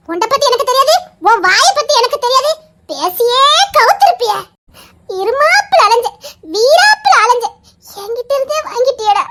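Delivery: teasing through laughter; half-scolding, half-laughing at her husband. Real, not acted. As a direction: scold him while giggling.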